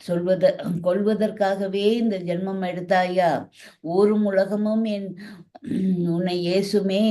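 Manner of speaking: wailing. Acted. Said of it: "Dasarathar கதறினார்".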